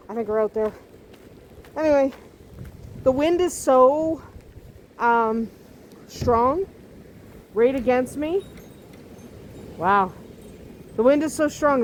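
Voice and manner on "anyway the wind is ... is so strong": raised voice against strong wind; shouting over wind. Real, not acted. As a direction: call out over the gusts. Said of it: "it steals the breath".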